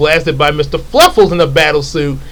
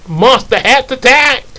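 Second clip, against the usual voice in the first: commanding villain; 8 semitones higher than usual. Acted.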